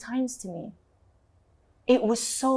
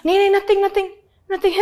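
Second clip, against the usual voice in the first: high, loud fake-innocent nothing; mock innocent stammer; sheepish denial; 10 semitones higher, 5 dB louder, faster than usual. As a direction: brush it off like a guilty giggler. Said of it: "What's so funny?".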